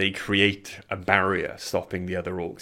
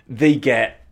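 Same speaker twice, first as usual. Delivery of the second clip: slow; 4 semitones higher, 6 dB louder, much slower than usual. Acted. GM stretches out the failed throw.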